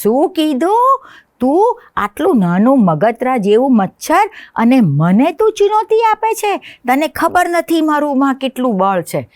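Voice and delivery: a startled king of the jungle insulted; indignant lion. Acted. Startled lion answers mosquito. (ગુસ્સે થયેલો સિંહ)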